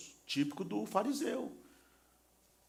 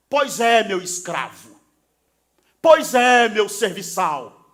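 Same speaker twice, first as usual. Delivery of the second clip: sarcastic father; 2 semitones higher, 14 dB louder, slower than usual. Pretend. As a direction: throw the son's words back at him, mocking. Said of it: "Se fosse eu, responderia".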